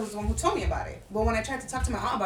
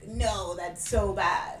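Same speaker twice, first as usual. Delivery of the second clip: put-on slow drawn-out valley girl whine; mock a valley girl, dragging it out; 3 semitones lower, much slower than usual. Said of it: "In that voice? Why they had a Valley Girl voice?".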